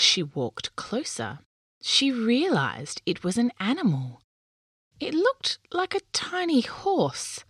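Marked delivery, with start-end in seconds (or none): 5.0-7.4 hushed storybook whisper, slowing at the end. A narrator's reading. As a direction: whisper it as if you might scare it away. Discovering a small creature.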